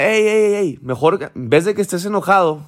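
a hint of a mom urging her son on; lightly voiced mother, coaxing; mother comforting her crying son, lightly voiced, coaxing; mother's voice. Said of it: "Y le dice la mamá".

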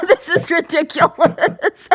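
slow, helpless tearful laugh; embarrassed crying laugh; laughing through tears. Real, not acted. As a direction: laugh at your own crying. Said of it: "I'm crying again".

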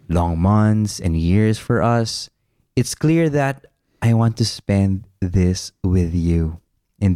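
slow, drawn-out heartfelt recital; dramatic letter reading. Acted. Husband reading his cheesy love letter to his wife, dramatic. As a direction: read it slowly, lingering on the phrases. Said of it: "like, a dramatic voice?".

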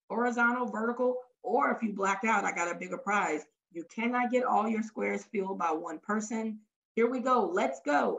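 rally the room for a game; energetic game host. Acted. Acting out giving game instructions.

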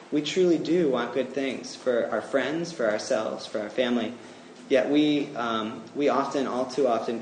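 earnest spoken prayer. Acted. Preacher leads the congregation in closing prayer, earnest. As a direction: pray for the congregation, steady and sincere.

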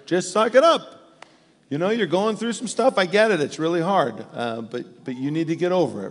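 a lightly voiced tough-love dad; dismissive advice. Dad brushing off someone's struggles, mock dismissive. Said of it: "we should have those easy answers".

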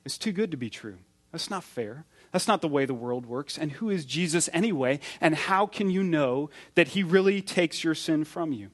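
doubting stranger's voice. Retold or imitated. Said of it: "The stranger's voice says".

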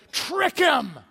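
angry threat. Retold or imitated. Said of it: "and they say".

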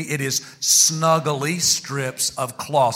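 slow, spaced-out words for the congregation; leading group repetition. Shown as a demonstration. Preacher getting church to say it along, slowly. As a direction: draw it out so everyone can join. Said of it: "Come on, say it with me".

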